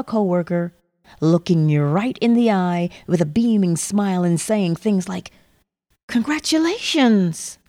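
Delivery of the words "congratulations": excited. Acted. Imagined friend congratulating listener.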